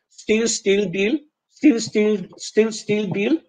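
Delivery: "still" and "Bill" with a long Polish ee; "steel" and "Beel"; no distinction. Shown as a demonstration. Teacher showing the merged Polish vowel. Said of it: "if I don't make the distinction".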